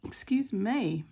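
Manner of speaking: talking through hiccups; hiccuping between words. Real, not acted. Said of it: "all the hiccups".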